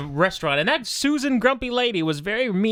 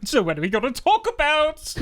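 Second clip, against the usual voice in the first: put-on high boy voice; 7 semitones higher than usual. Voicing Ollie.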